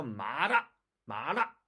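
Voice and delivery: 마라 as Chinese málà, with a firm L; Chinese-style L in 마라; Chinese pronunciation. Shown as a demonstration. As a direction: press the tongue for the L in 마라. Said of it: "얘네들을 한국말로 비교해 볼게요".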